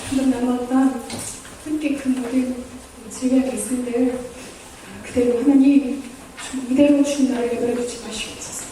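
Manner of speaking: low, measured closing prayer; leading prayer. Real, not acted. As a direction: lead the congregation in earnest prayer, pausing between phrases.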